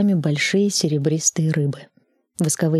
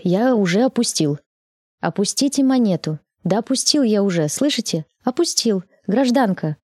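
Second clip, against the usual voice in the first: rising exasperation, higher; exasperated; 4 semitones higher than usual. Acted. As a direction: plead with growing despair. Exasperated with operator.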